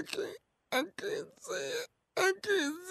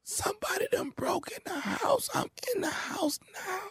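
panicked. Acted. Panicked caller in closet.

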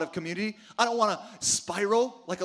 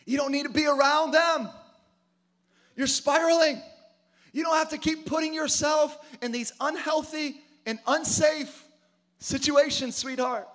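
God warning gently; 7 semitones higher than usual. Pretend. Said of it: "let you know".

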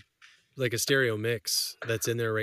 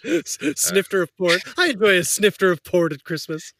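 higher, hammed-up aristocrat; posh gentleman; 4 semitones higher, 4 dB louder than usual. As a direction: play a pompous gent at Christmas. Joking posh gentleman persona.

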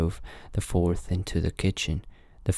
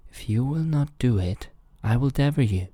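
lightly acted threat, pitched up; wolf's threat; 6 semitones higher than usual. Wolf threatens the reluctant miller, raised-pitch mild threat. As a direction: threaten as the wolf, without shouting.

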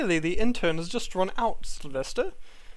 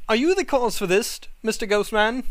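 raised, louder polite query; cat questioning; 5 semitones higher, 4 dB louder than usual. Acted. Cat asking the ghost if he caused this, louder.

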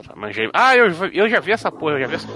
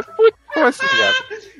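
surprised; slower than usual. Retold or imitated. Retelling his surprise.

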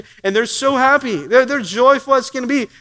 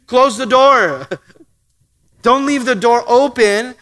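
firm command; 4 dB louder than usual. Real, not acted. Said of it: "firm command to congregation".

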